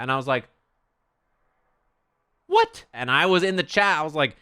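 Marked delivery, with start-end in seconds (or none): 2.5-2.9 high, loud mock disbelief; loud, high-pitched "what?"; incredulous outburst. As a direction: blurt it out, pitch shooting way up. Retold disbelief at friend's griping.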